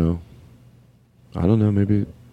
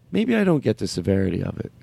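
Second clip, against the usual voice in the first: imagined person conceding; 8 semitones lower, 3 dB quieter than usual. Retold or imitated. Imagined concession, low and soft.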